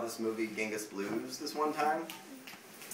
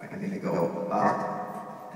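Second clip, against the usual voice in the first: chipmunk voice; 3 semitones lower, 4 dB louder, slower than usual. Shown as a demonstration. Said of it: "then I sound like a chipmunk".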